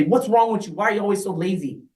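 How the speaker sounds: mildly upset, quick accusing questions; lightly acted irritation, picking up speed; mock upset. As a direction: hurry through a mock scolding. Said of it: "get upset and say".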